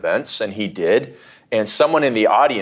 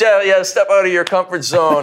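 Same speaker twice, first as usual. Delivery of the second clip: mock preachy advice; 8 semitones higher than usual. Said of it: "Make these big leaps".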